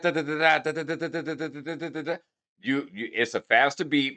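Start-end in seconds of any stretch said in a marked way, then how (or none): 0.0-2.2 fast scat. Shown as a demonstration. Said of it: "them rappers who spit fast".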